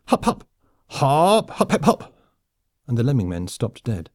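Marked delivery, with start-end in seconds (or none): 0.1-2.1 high, barked drill commands. A narrator's reading. Officer halting his lemming soldiers, barked. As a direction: bark out marching orders in a high voice. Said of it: "a voice barked".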